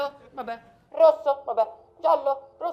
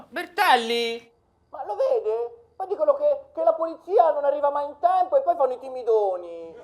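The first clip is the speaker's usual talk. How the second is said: laughing; 9 dB louder than usual. Acted. Teasing colleague loudly, laughing.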